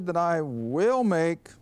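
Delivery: "will" pressed, slow "that I will make"; stress on will. Shown as a demonstration. Preacher hammering the future tense to the congregation, "will" stressed. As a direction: land hard on "will" for the future. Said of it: "I'm emphasizing the verb tenses here".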